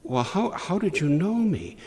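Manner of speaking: Nathanael, stunned that he is known, asks in surprise; surprised. Acted. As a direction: stammer out the question in amazement. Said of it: "Nathanael's all surprised".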